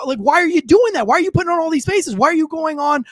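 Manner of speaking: worked-up, insistent rant; exasperated questioning. Real, not acted. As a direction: pile up demands at a politician. Rapid accusing questions at politician.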